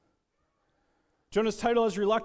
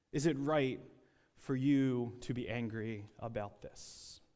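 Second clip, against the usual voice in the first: quiet calm question; 5 semitones lower, 5 dB quieter than usual. Acted. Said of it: "a quiet and a very calm voice".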